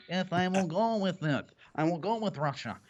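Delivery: a bad, half-hearted Brazilian accent; lightly put-on Brazilian accent, owned as a failure; mock Brazilian accent. Mocking Bolsonaro in a weak Brazilian accent. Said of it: "I can't do a Brazilian accent".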